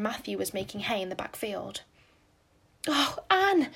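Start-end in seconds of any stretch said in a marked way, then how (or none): 2.9-3.7 high breathless cry of relief; gasping. A narrator's reading. Diana gasps at Anne, high and louder. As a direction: Diana gasps out her friend's name. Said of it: "gasped Diana".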